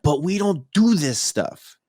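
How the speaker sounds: slow, insistent objection; pissed-off wife. Retold or imitated. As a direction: imitate an annoyed wife, stretching the key words. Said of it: "She was pissed".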